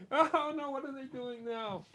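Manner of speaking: very high squeaky mock dismay; mock helpless fretting. Speaker playing a powerless bystander, mock alarm. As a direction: wail it high and small, hammed-up.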